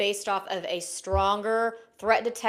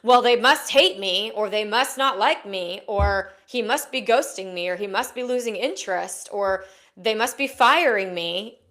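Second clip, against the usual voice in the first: anxious spiralling thoughts; 5 dB louder than usual. Retold or imitated. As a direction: act out the worried inner voice spiralling. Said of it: "you're going automatically into".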